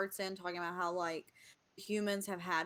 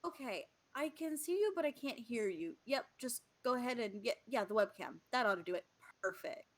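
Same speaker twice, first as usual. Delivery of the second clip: higher, chatty tech-support voice; helpful God; 4 semitones higher, faster than usual. Acted. God talking Jake through the webcam setup, higher and chatty. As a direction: coach him through the webcam lightly.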